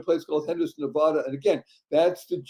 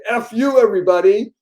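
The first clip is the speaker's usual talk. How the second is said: higher, louder cheeky call-out; playful shout; 6 semitones higher, 6 dB louder than usual. Pretend. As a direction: fling it out like a prank. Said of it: "point your finger and say".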